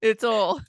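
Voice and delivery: "oil" said Southern-style, like "ohl"; Southern pronunciation. Shown as a demonstration. Host insisting on her Southern word, Southern pronunciation of "oil". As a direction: flatten OIL into a single-syllable "ohl". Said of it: "I have my Southern words".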